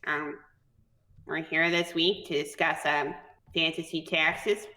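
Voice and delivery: low, deadpan goblin. Acted. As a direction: address the coalition like a bored Daria. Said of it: "Sounds like Daria".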